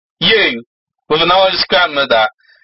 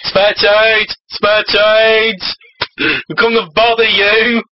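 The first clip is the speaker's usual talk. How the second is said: higher-pitched demon beggar call; pestering demon; 4 semitones higher, slower than usual. Acted. Comic demon pestering citizens on the street, pestering. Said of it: "demons have emerged to bother the citizens".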